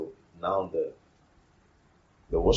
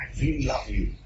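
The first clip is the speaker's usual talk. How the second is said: higher-pitched, hammed-up avowal; mock protestation of love; 5 semitones higher than usual. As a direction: insist on your love, playfully insincere. Mimics insincere professed love while refusing.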